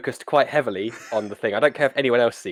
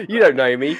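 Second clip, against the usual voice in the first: playful defiant; 4 semitones higher, 9 dB louder than usual. Acted.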